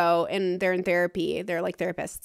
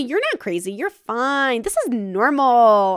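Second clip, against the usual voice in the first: dismissive reassurance; 4 dB louder, slower than usual. Retold or imitated. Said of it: "So when you tell me".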